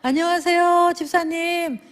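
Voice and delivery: demo greeting. Shown as a demonstration. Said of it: "어떻게 하라고요".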